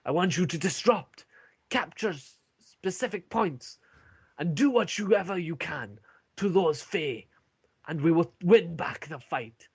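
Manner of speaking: rally the troops with gravity; dwarf commander's address. Acted. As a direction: Turek tasking the party with their mission, solemnly. Turek finishes his briefing.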